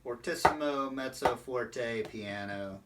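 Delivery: spaced-out "fortissimo, mezzo forte, piano", gradually fading; gradual dynamic step-down. Shown as a demonstration. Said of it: "it shouldn't be like".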